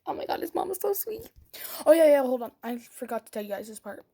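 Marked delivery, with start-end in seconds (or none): 0.1-1.3 high, breathless whisper of delight; gushing whisper. Retold or imitated. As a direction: whisper it like a swooning girl. Gushing over boyfriend's mom.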